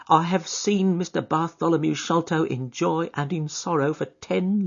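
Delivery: put-on high, shaken old woman; an upset old servant unburdening herself; distressed housekeeper. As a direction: pour out her relief. Housekeeper explains the locked door.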